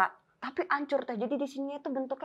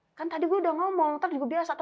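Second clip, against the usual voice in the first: annoyed; 7 semitones higher than usual. Retold or imitated. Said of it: "Tapi dia kesel".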